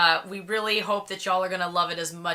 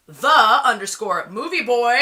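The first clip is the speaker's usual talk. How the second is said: slow, louder channel-name announcement; announcer sign-off; 3 semitones higher, 5 dB louder, slower than usual. Real, not acted. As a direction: announce the name slowly and deliberately.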